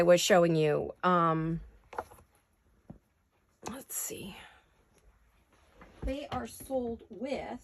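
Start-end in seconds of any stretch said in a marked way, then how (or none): 3.7-7.6 muttered off to the side; quiet aside. Real, not acted. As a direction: drop to a mumble while searching. Fumbling off mic.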